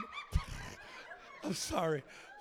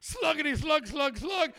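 imitated gulping; 5 semitones higher, 3 dB louder than usual. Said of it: "grabs a fifth of vodka and goes".

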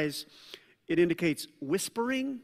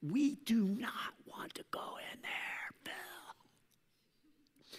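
much softer, unvoiced warning; secret whisper; 3 semitones higher, 10 dB quieter, much slower than usual. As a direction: murmur it so nobody else hears. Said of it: "this is secret information".

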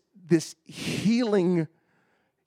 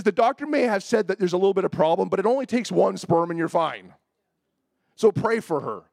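higher, mildly exasperated insistence; mean Bob Jones; 5 semitones higher, 4 dB louder than usual. Retold or imitated. Prophet overruling the doctor's word, mildly stern. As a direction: push the point, imitating a stern prophet. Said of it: "turned to mean Bob Jones".

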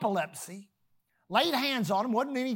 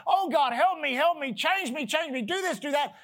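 pleading prayer; 4 semitones higher than usual. Retold or imitated. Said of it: "exhaust themselves on their knees praying".

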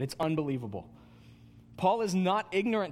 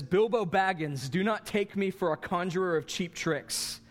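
Gandalf speaking. Retold or imitated. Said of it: "Gandalf gets huge ... he says".

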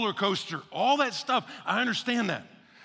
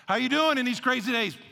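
acted cheery greeting; 4 semitones higher than usual. Acts out the greeting once more.

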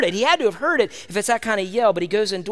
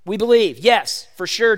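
louder, emphatic acted yes; without hesitation; 4 dB louder, slower than usual. Blind men answering Jesus, unhesitating and sure. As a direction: answer at once with firm conviction. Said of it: "without any hesitation, with no pause".

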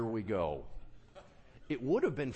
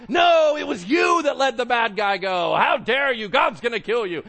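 much louder, higher prophet yelling; furious accusation; 9 semitones higher, 14 dB louder than usual. Retold or imitated. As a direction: thunder the verdict at the king. Prophet unmasks and condemns.

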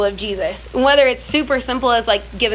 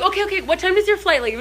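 high, concerned imitation of a British helper; sweet British man; 8 semitones higher than usual. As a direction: play the kindly stranger sorting things out. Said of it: "British man just stops and goes".

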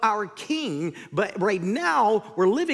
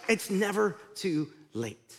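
softer, slow, tender repeat; gentle reassurance; 3 dB quieter, slower than usual. Shown as a demonstration. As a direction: reassure the doubter quietly.

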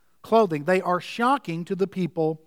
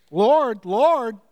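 louder, pleading cry of Lord; fervent plea; 3 semitones higher, 5 dB louder than usual. Retold or imitated. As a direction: call out Lord with fervour. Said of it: "It's emphatic here".

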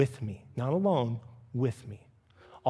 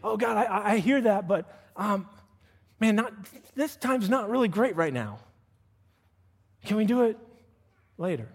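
hedging excuse; 5 semitones higher than usual. Retold or imitated. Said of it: "God speaking to you".

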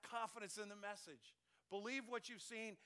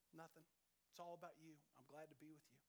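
calm; 3 semitones lower, 12 dB quieter, faster than usual. Retold or imitated. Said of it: "just as calm as can be".

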